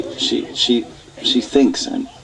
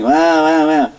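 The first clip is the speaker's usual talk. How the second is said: mock baby wail; 5 semitones higher than usual. Imitates the baby's crying.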